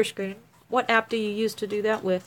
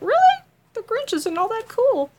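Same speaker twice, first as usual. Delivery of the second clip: mock offended; 13 semitones higher, 5 dB louder than usual. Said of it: "I was like".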